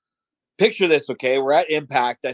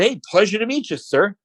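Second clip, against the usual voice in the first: eager greeting; 7 semitones higher than usual. Retold or imitated. Re-enacts his own polite introduction.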